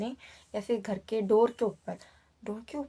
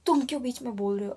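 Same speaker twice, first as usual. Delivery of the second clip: louder, quick mock shout of the possessed girl; retold yell; 3 semitones higher, 5 dB louder, faster than usual. Cousin yelling at the neighbour, a retold mock shout. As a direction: snap it out fast as if yelling. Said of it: "इतना ज़ोर से बोलती है वो".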